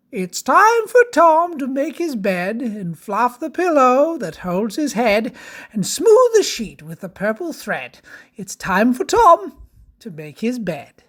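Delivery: sing-song storybook verse; children's story narration. Acted. Reads rhyme to children.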